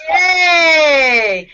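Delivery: loud cheerful yay. Shown as a demonstration. Teacher ending exercise: loud yay cheer. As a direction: shout it like a celebration. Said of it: "It's called very good, very good, yay".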